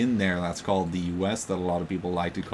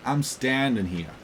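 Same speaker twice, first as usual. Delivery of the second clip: British accent, a bit higher and slower; 4 semitones higher, slower than usual. Shown as a demonstration. A British accent demonstrated in an accent chat. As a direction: say it the British way, slow and careful. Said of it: "You say".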